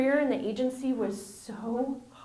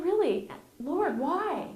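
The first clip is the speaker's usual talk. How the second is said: exasperated plea; 7 semitones higher, slower than usual. Retold or imitated. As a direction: throw up your hands at the sky. Retold complaint to God.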